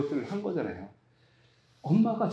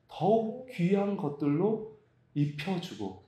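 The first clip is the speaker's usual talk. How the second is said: scripture reading. Acted. Reads scripture aloud.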